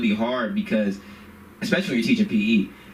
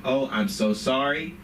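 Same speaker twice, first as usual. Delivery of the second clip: full apology mode. Retold or imitated. Teacher apologizing to a student, careful mock contrition. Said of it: "I'm at full apology mode".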